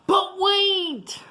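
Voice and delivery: high, startled exclamation; spring the surprise on the kids; surprised but wait. Acted. Teacher to class, high sudden surprise. Storytime suspense twist.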